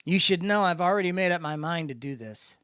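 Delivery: edgy, passionate plea; pleading his case. A narrator's reading. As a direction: push your case hard. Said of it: "launched into pleading his case".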